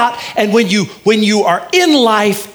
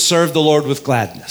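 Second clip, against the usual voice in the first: loud call; 4 semitones lower than usual. Shown as a demonstration. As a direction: call it out strongly. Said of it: "I want you to say this".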